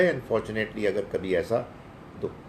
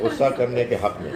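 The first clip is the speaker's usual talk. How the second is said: repeated with a laugh, a bit louder; 3 semitones higher, 5 dB louder than usual. Real, not acted. Host amused by a caller's case for anger, laughing. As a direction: chuckle as you say it again, for emphasis. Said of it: "آپ نے ایک بہت convincing تقریر کی ہے".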